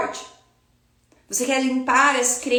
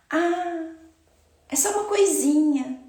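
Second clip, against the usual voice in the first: higher-pitched, mock-modest belittling; false humility; 4 semitones higher than usual. Teacher mimicking falsely humble talk about her technique, mock-modest. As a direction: play it down with put-on modesty. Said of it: "nessa falsa humildade que é pregada".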